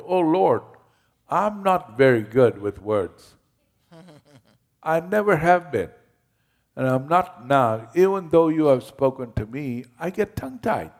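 high, loud pleading voice, mock despair; pleading Moses.

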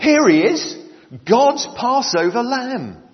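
high, loud proclaiming shout; yelled out. Retold or imitated. John the Baptist calls out to the crowd at Jesus, loud yell. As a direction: cry it out across the river. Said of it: "and yelled out".

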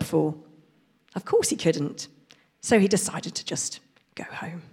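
storybook reading voice; reading to children. Acted. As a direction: read it like a picture book to kids. Reads picture book aloud.

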